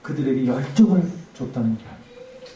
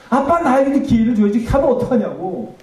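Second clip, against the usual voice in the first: much higher, loud wailing '아빠'; anguished wail; 9 semitones higher, 5 dB louder than usual. Retold or imitated. Daughter wailing at the funeral, higher and louder. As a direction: let the cry break upward in grief. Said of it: "내가 뭐라고 얘기했냐면".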